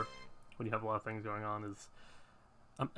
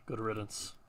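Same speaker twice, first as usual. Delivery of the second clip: a hint of a solemn old guardian; hooded man voice.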